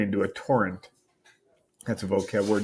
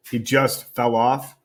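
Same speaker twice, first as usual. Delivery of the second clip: suspicious mom; much slower than usual. Acted. Mom interrogates Steven.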